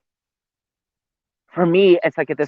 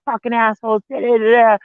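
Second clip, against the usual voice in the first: mock outburst; 8 semitones higher than usual. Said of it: "be like".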